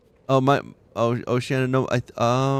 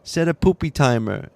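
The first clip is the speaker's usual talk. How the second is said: lightly imitated kid giving Alexa a command; a bit higher and louder, as the child; retold child; 4 semitones higher, 4 dB louder than usual. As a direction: mimic a kid addressing a smart speaker. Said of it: "but he would go".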